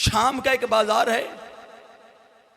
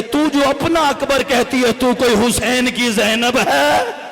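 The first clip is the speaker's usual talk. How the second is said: weeping question; 3 semitones higher, 5 dB louder than usual. A narrator's reading. Momna weeps, asking the lady if she is Zainab. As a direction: plead through tears, stretching each word. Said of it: "मोमना रो के कहती है".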